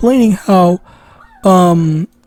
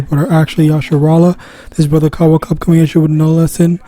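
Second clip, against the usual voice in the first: quick, formal ceremonial salutation; fast sermon-style roll call of honors; preacher's opening greeting; 3 semitones lower, faster than usual. Acted. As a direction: rattle off the blessings like a ritual.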